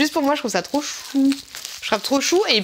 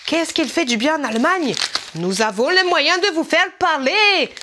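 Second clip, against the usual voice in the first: hammed-up mock German accent, raised pitch; 4 semitones higher than usual. Vlogger threatening to make someone talk, mock German accent. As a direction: play the comic German interrogator, heavy accent. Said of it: "nous sommes en Allemagne".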